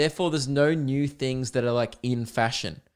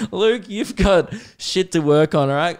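mock self-scolding; 4 semitones higher, 5 dB louder than usual. Scolding himself mid-run.

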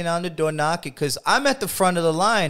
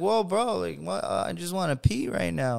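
calming someone down; 3 semitones higher, 6 dB quieter than usual. Retold or imitated. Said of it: "I'm like".

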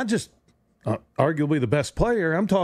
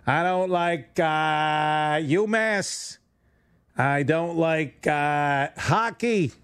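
imitating Kyrie; much slower than usual. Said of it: "You don't like the Patriots".

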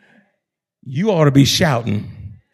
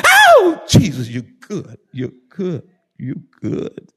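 imitated church shout. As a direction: mimic a worshipper's outburst, dying away. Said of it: "he would shout all over that church".

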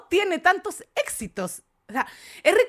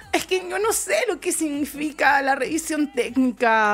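laughing through a silly excuse. Retold or imitated. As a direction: giggle the words out. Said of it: "Y tú decís".

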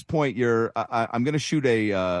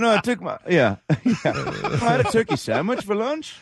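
put-on high, slowed Australian accent, laughing through it; a bright Australian lilt, stretched out; Ryan Rowland-Smith accent; 9 semitones higher than usual. Host mimicking the Australian broadcaster's reply, in Australian accent. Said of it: "was that the accent".

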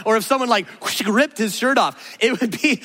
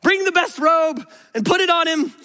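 a much higher, eager father calling to servants; the overjoyed father giving quick orders; joyful father; 4 semitones higher than usual. Acted. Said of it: "he says".

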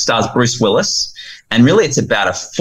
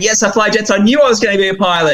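put-on much higher, fast, thrilled child voice; excited boy; 13 semitones higher, much faster than usual. Boy crows about flying jets, fast high excited voice. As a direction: rattle it off like a kid who can't contain himself. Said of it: "just getting all excited".

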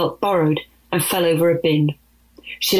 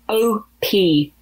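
irritable; 3 semitones higher than usual. Acted. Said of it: "into two irritable sounds".

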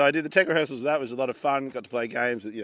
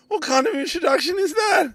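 much higher, louder outraged question; mock indignant; 4 dB louder than usual. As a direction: play up the offence, hammed-up. Indignant at insulting introduction.

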